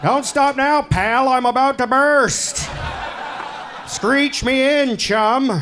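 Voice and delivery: camp it up as a mock lover; east coast variation. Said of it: "hear a variation".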